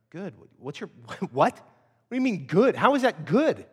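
baffled, stammering questions landing on GOOD; exasperated disbelief. Acted. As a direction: react in incredulous exasperation. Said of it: "wanna just choke the guy".

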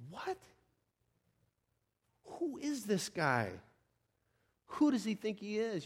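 soft, scandalized murmur; hushed disbelief. Acted. Stunned worshipers asking about Jesus, hushed disbelief. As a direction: mutter it under your breath. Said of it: "And they're going".

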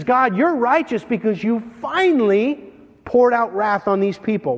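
relieved, exclaiming praise to God; exultant angel. Acted. Angel to God as wrath falls, exultant.

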